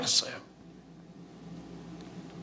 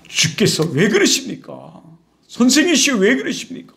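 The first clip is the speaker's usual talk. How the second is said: rebuking. Acted. Peter reproaches his teacher, rebuking. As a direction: plead and scold in one breath. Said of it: "막 꾸짖으면서".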